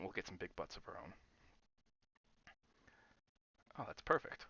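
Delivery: eating an apple while talking; crunching apple. Real, not acted. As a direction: talk over an apple bite. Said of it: "ignore the crunching. I'm eating an apple".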